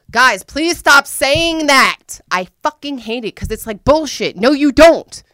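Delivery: loud, high, exasperated protest; annoyed outburst. Real, not acted. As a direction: push back hard, fed up. Annoyed outburst at own quote.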